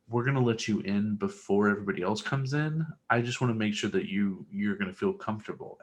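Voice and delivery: softly voiced park worker, retold; imitating gentle reassurance.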